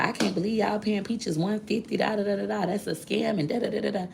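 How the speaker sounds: mock the gossiping hater; a lightly voiced hater. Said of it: "She like".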